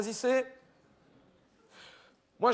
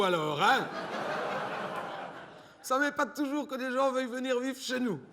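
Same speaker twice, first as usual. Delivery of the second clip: laughing; 4 semitones higher than usual. Real, not acted. Laughs at the caller's request.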